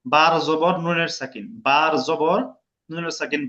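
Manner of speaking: each letter name set apart, বার জবর, then নুনের সাকিন; slow teacher's spelling, part by part; spelled out separately. Shown as a demonstration. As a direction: spell it piece by piece with breaks between parts. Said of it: "প্রত্যেকটাকে আলাদা আলাদা করে".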